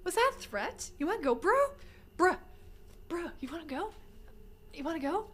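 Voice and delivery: soft, teasing threat; half-hearted tough-guy taunt; mock quiet challenge. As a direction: pretend to square up, softly.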